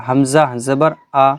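final আ said short, without stretching; short final vowel. Shown as a demonstration. Teacher models the rule for students, short final vowel. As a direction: clear spelling-out, then a quick unstretched আ. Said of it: "আমরা টান দেবো না".

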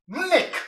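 "Mnik" with n after the humming m, pitched high; Uyu dialect pronunciation. Shown as a demonstration. Teacher showing the Uyu word for water, Uyu dialect pronunciation. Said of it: "in Uyu dialect, they will say mnik".

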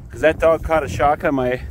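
talking around a mouthful of hay; mouth full. Real, not acted. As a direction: speak with hay in your mouth. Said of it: "sorry, I have hay in my mouth".

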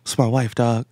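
a restrained mock telling-off; a rapper, stern. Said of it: "He said it very sternly".

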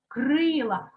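крила with a firm stressed «и»; stressed first syllable. Shown as a demonstration. Teacher restores the right word, крила with clear stressed «и». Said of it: "щоб воно стало наголошеним".

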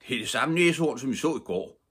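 put-on a cheerful old man explaining; Mr Holm. A narrator's reading. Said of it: "sagde hr. Holm".

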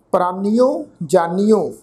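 ਪ੍ਰਾਨੀਓ and ਜਾਨੀਓ ending in a clear -nio; ਜਾਨੀਓ with hora o on the end; careful pronunciation. Shown as a demonstration. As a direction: sound each syllable of ਪ੍ਰਾਨੀਓ, ਜਾਨੀਓ distinctly. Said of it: "ਦੁਲਾਵਾਂ ਦੀ ਮਾਤਰਾ ਦੀ pronunciation ਕਰਾਂਗੇ".

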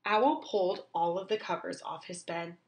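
usual speaking voice

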